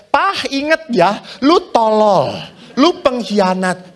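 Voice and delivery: jab him with the reminder; mock wife calling him traitor; nagging wife. Wife nagging husband again.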